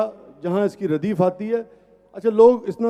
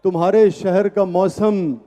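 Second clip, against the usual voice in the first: measured, emphatic verse recitation; poetry recital; 3 dB louder than usual. Acted. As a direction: recite it to a live audience. Recites ghazal at mushaira.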